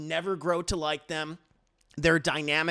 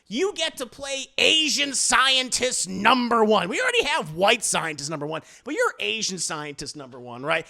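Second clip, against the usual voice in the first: mock casting director; 4 semitones higher, 5 dB louder than usual. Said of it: "It's like".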